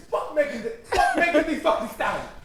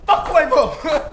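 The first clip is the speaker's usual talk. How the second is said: mock Michael Blackson accent; 4 semitones higher than usual. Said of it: "That's exactly the fucking accent that was going for".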